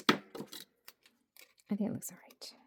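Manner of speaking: slow whispered verdict. Real, not acted. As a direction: whisper it slowly to yourself. Whispered judgement.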